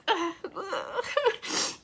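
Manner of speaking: soft crying laugh; teary laugh. Real, not acted. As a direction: laugh breaking through tears.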